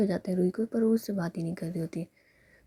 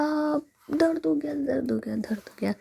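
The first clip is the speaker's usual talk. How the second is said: fake pain drama; 6 semitones higher, 3 dB louder than usual. Girlfriend fakes pain to make sulking Ruhi look, mock whimper. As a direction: overact a little hurt to get attention. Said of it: "थोड़ी सी नौटंकी सूझती है".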